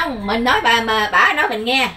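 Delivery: to someone hard of hearing. Real, not acted. Speaking loudly, slowly to deaf woman.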